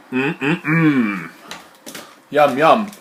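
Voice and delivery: loud, appreciative mmm and yum; playful relish. Pretend. Brewer admiring the cappuccino colour, loud playful relish. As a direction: savour it loudly, like something delicious.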